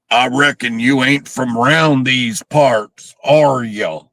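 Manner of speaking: slow, hammed-up Southern redneck drawl; fake Southern redneck accent. Host mimics the movie's driver, fake Southern redneck accent. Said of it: "that's the worst fake Southern redneck accent".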